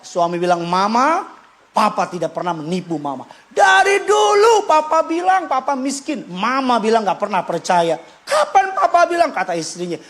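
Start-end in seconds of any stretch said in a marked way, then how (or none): 0.6-9.3 husband protesting. Retold or imitated. Husband defends himself to wife.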